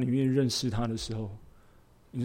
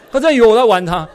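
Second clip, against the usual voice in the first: laughing while telling; 11 semitones higher, 17 dB louder, faster than usual. Real, not acted. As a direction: still laughing, voice falling at the end. (笑着重复)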